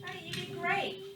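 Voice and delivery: soft, soothing teacher voice; gentle reassurance. Real, not acted. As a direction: quietly comfort an upset pupil. Teacher comforts an upset child.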